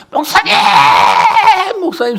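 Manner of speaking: high, loud calling out from outside; retold yelling. Deaconess yelling for the pastor from outside, loud calls. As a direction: shout for the pastor from the yard. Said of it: "소리를 버럭버럭 질러대면서".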